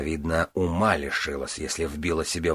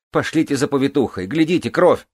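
high, loud panicked call; alarmed outcry; 8 semitones higher, 5 dB louder than usual. Acted. Elaine calls out in alarm.

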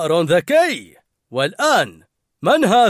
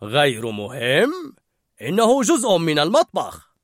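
correcting; 3 semitones higher, 5 dB louder than usual. A narrator's reading. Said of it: "مصححا كلامه".

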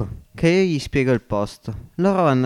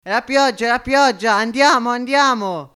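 higher, raised, joyful call; cry of amazement; 8 semitones higher, 4 dB louder than usual. Acted. Marcovaldo wakes the family at night rain, excited shout. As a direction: wake everyone up, it's raining. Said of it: "urlò dallo stupore".

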